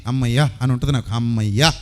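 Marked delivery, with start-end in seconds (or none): 0.1-0.5 lower, relieved "అమ్మయ్యా"; happy relief, voiced lower; relieved sigh of joy. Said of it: "happy". 1.1-1.7 lower, relieved "అమ్మయ్యా"; happy relief, voiced lower; relieved sigh of joy. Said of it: "happy".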